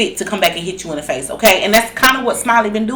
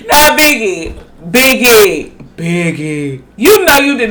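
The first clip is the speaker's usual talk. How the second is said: disbelieving scold; slower than usual. Real, not acted. Scolding Biggie through laughter.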